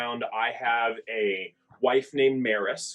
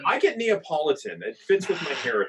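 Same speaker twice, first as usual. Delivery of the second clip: laughing; 3 semitones higher, faster than usual. Real, not acted. Joking claim while laughing.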